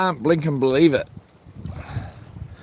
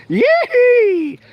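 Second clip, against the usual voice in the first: high loud yee-haw whoop; high loud excited yell; 4 dB louder than usual. Real, not acted. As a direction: whoop with glee. Celebrating being kicked out.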